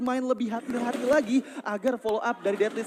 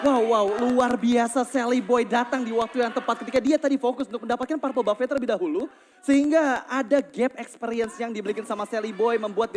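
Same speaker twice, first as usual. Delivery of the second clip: esports caster; 3 dB louder than usual. Real, not acted. Caster hails a big play.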